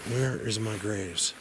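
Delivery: winded from hiking; breathless between words; out of breath. Real, not acted. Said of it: "I don't know why I'm so out of breath".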